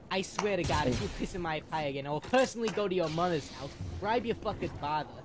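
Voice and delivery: Angry Jonas voice. Retold or imitated. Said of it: "let me start over".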